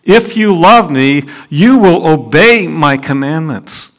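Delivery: slow, earnest; solemn words of Jesus; earnest quote of Jesus. Acted. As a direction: say it as a gentle command. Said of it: "Jesus said".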